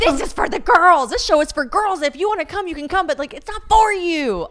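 high, loud playful tirade; mock indignant shout. Telling boys the show is for girls, mock shouting. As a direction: yell it high, hammed-up. Acted yelling at male audience.

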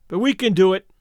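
ordinary delivery

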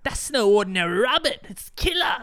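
mock panic, climbing high on killer; alarmed knight. Voicing knight in movie retelling.

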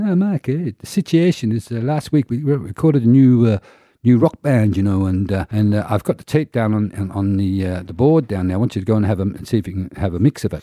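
put-on a Scottish producer giving his new apprentice a first job in a Scottish accent; George's Scottish accent. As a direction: imitate the Scottish boss in his Scottish accent, high at the start. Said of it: "I'll do George's, try to do his accent".

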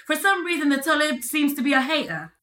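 put-on British accent, playfully insistent; Manchester accent. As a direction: pose as someone from Manchester. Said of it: "this is really how I talk".

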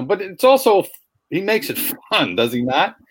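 hoarse, fading voice; losing voice. Real, not acted. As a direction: rasp through a tired throat. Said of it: "Sorry, I'm losing my voice".

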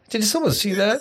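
high, hushed mock panic; a hint of sheepish alarm; mock embarrassed self. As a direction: play your own guilty whisper-panic. Retelling embarrassed moment at neighbor's.

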